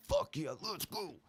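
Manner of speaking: high, breathless little whoop of joy; he just got the amp he wanted; excited cheer. Retold or imitated. To the seller who agreed, a high excited whoop.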